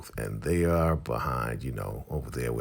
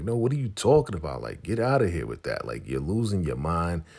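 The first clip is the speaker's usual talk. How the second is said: higher, fast mock disbelief; incredulous refusal; 4 semitones higher, 3 dB louder, faster than usual. Oliver rejecting Lacey's plea, incredulous mock refusal. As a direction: wave it off quickly, pitched up.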